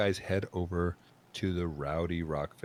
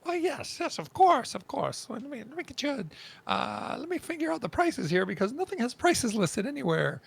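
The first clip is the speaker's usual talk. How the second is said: high dwarf innkeeper; 14 semitones higher than usual. Acted.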